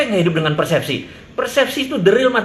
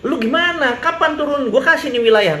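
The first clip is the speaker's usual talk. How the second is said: laughing mock offer; 7 semitones higher than usual.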